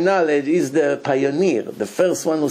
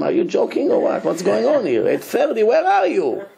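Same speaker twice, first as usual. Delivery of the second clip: high, exasperated telling-off; angry rabbi; 7 semitones higher than usual. Retold or imitated. Rabbi on phone scolding the runaway groom, angry. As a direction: demand answers, voice climbing. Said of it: "the rabbi started to scream".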